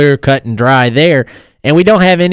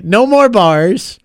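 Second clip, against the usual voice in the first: put-on slow Boston accent; 5 semitones higher, much slower than usual. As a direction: drag out bars like a Bostonian. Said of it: "when somebody talks like bars or cars".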